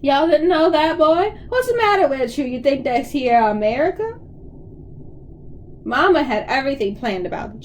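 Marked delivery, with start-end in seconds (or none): 0.0-4.2 put-on Southern hillbilly accent. Dad egged on by the kids' laughter, higher mock hillbilly accent. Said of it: "say some more Southern-style stuff".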